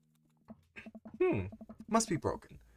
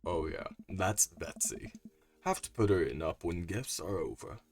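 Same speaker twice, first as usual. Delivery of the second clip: low vocal fry voice; 4 semitones lower than usual. Acted. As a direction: keep it low and dragging.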